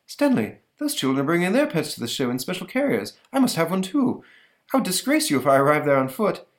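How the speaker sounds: high, huffy; fussy monster. Retold or imitated. Monster demanding a carrier from Stanley, high and huffy. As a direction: insist grandly on a carrier. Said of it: "monster demanding carrier".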